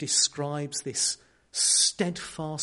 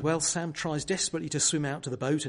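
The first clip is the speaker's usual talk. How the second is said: usual speaking voice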